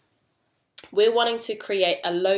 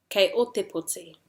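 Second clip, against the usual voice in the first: O raised, then falling through POTI; responding to a question. Shown as a demonstration. Teacher answers in te reo, O stressed then falling. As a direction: answer with weight on "o", then fall. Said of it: "responding to a question".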